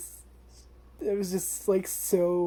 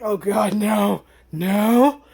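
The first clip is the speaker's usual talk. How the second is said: retold sobbing cry; 3 semitones higher, 11 dB louder, much slower than usual. Reacting to the show's sad scene, rising anguished cry. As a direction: wail it, each no louder. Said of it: "Just immediately sobbing".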